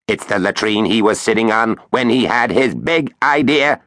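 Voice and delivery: quacky robot voice, thrilled; gushing know-it-all machine. Acted. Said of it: "Its quacky robot voice".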